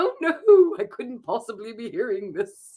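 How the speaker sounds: making-fun voice. Imitating how her son makes fun of her: imitating Ian's mocking voice. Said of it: "that's Ian's voice for me".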